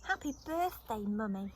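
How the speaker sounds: little bear giving mummy his present; cried happily. Acted. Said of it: "he cried".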